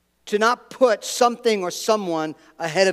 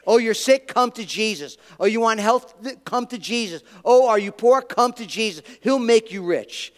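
mock prosperity preacher; 3 semitones higher than usual. Preacher mocks prosperity-gospel pitch to the sick and poor with sarcasm. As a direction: parody a glib prosperity preacher. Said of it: "I hate the prosperity gospel".

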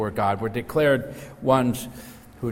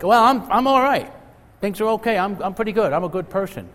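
higher, louder, defensive; self-satisfied sinner; 10 semitones higher, 5 dB louder than usual. Retold or imitated. Preacher mimics street man claiming he's good, higher and defensive. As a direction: play the smug man who thinks he's fine. Street person excusing himself.

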